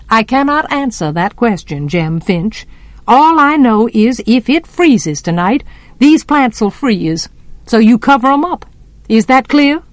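lightly voiced no-nonsense neighbour; Miss Maudie, firm. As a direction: lay down the law a little, in character.

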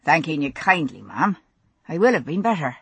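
lightly voiced, soft and low stranger; a hint of a faint accent, quiet and courteous; soft deep voice. The dazed stranger thanking the woman, soft and deep. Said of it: "a faint accent and a soft, deep voice".

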